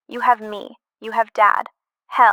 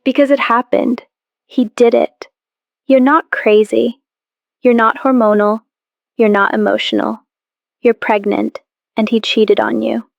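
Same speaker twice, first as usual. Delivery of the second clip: louder, hammering each short sentence home; forceful insistence; 8 dB louder than usual. Acted. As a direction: lay the truth down firmly to snap her out of it. Sister insists he cheated.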